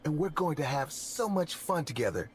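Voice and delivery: soothing, high and lightly creepy; calm but creepy. Acted. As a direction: coax the child in a hushed fake-daddy tone. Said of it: "in a calm but creepy voice".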